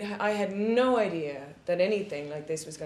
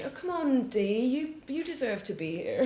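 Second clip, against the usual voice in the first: higher voice, imitating a deputy director's encouragement; coaxing reassurance; 7 semitones higher than usual. Deputy director encouraging a nervous actress, coaxing in a higher voice.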